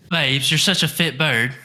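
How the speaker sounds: high, slow British attempt with country twang; British attempt sounding country. Shown as a demonstration. Copying a friend's Love Island line, country-tinged British attempt. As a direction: botch the British accent, drawn out. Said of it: "You're so country".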